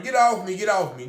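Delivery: half-acted panicked shout of get off me; imitating her screaming to be let go; retold screaming. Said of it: "Now she's screaming and hollering".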